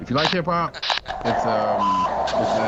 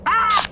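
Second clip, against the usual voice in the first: sudden yelp; 7 dB louder than usual. Real, not acted. Laughs then sudden exclamation.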